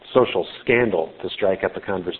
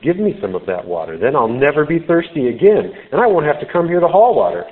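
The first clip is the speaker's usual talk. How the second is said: sarcastic; 5 semitones higher, 4 dB louder than usual. Acted. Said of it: "she responds with sarcasm".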